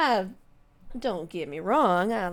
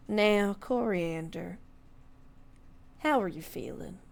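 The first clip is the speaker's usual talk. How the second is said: gentle question. Acted. Lord asking Coriander how she feels, gently. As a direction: coax her kindly.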